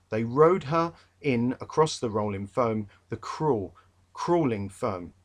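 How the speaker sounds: poem read in a London accent, cruel and crawling. Shown as a demonstration. Teacher reading a poem in his London accent. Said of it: "I said it like that because it's a bit clearer".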